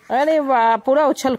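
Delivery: loud, high delighted wow. Real, not acted. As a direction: burst out in delight. Baby jumps happily. (बच्चे की उछल कूद पर खुश होकर अरे वाह)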